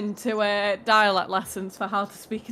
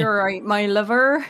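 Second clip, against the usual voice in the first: a touch of West Country farmer; farming accent; 4 dB louder than usual. Acted. Co-host joins in on the farmhand voice, farming accent. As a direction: greet them like an English country farmer. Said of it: "farming accent as well".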